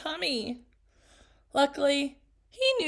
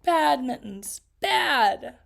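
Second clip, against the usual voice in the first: firm, louder scolding; stern scolding; 4 dB louder, slower than usual. Acted. Reader scolding the pet firmly.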